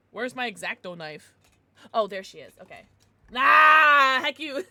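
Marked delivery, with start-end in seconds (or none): 3.4-4.7 loud laugh then mock curse; playful laughing jab. Real, not acted. Laughing reaction to chat.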